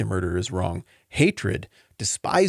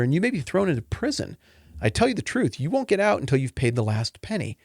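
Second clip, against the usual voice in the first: measured, earnest reading of the text; solemn Bible reading to the congregation; scripture reading. Acted. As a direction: read the verses with weight. Reads scripture passage.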